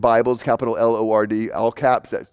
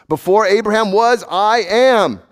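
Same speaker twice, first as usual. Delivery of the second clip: louder and higher, ringing out; bold proclamation; 7 semitones higher, 4 dB louder, slower than usual. Acted. Pastor voicing Jesus to the crowd, proclaimed boldly. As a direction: proclaim it as a triumphant claim. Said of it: "Jesus used the words on purpose".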